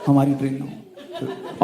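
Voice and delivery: slow, worried, hushed; anxious hush. Retold or imitated. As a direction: hold your breath and hope. Anxious waiting for announcement. (धीमी डरी हुई फुसफुसाहट)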